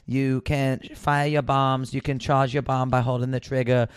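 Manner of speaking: checked-out booth attendant, lightly put-on Scandinavian accent; bored monotone spiel. Booth attendant herding the next players in line, disinterested monotone. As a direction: recite a memorized spiel with total disinterest, imitating her. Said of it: "just in a monotone, totally disinterested".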